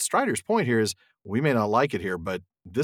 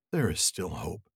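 low, slow, steady comfort; calm him with quiet hope; reassuring ranger; 6 semitones lower, 7 dB quieter, slower than usual. Acted. Strider reassuring Frodo.

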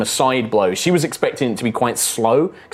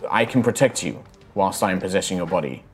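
soft, lowered voice of a spirit; faint spirit voice; 4 semitones lower, 6 dB quieter than usual. Acted. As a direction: speak faintly from inside someone's head. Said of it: "this kind of faint voice like".

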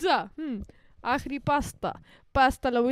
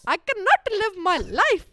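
put-on slow, drawn Tamil accent; 4 semitones higher, 5 dB louder, much slower than usual. Friend finishes the phrase slowly in a Tamil accent. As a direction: stretch out each word, South Indian style. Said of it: "Tamil".

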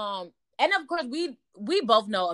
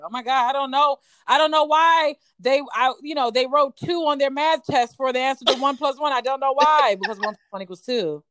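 raised, playing dumb; mock clueless Leo; 4 semitones higher, 4 dB louder than usual. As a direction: act baffled by the obvious.

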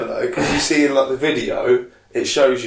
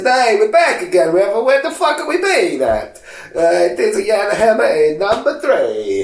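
mock Canadian voice; 5 semitones higher than usual.

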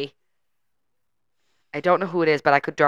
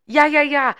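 imitating talk-show guest; 9 semitones higher, 6 dB louder than usual. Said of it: "but she goes".

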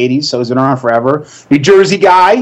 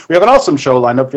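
mock host line; faster than usual. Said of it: "I always say".

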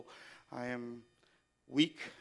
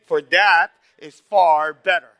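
For that is far better, slow and measured; congregation recital; 4 semitones higher, 17 dB louder, slower than usual. Shown as a demonstration. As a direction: lead the room in saying it. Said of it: "Would you say that with me".

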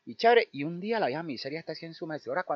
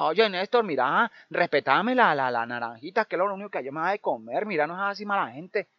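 put-on old woman pleading; 2 semitones higher, 5 dB louder than usual. Old woman begging the boys to spare her oranges, loud pleading. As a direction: beg the boys to leave the oranges.

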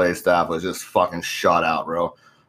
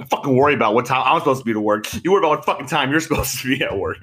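snapping back; 4 semitones higher, faster than usual. Retold or imitated. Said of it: "I was like".

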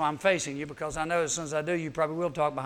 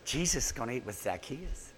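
crowd murmur; 6 semitones lower, 9 dB quieter than usual. Retold or imitated. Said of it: "the crowd goes".

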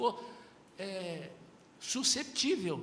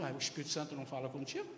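mocking; 7 semitones lower, 7 dB quieter, faster than usual. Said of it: "debochando de mim".

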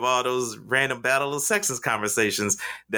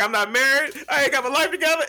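higher and louder fake distress; mock panic, louder; 11 semitones higher, faster than usual. Fake meltdown escalating in front of the lady, louder mock panic. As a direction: ham up the crisis, getting bigger. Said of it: "I progressively got louder and louder".

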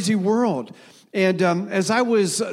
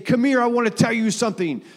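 commanding call; 5 semitones higher, faster than usual. Retold or imitated. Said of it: "It's not a command saying".

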